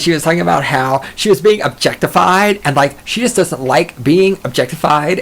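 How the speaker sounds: lightly mimicked complaining musician; imitating the musician. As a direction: mimic her complaint mockingly. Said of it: "talking just like this".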